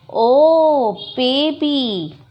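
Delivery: drawn-out exclamation on finding someone; acted surprise. Girl discovers her baby sister, acted surprise.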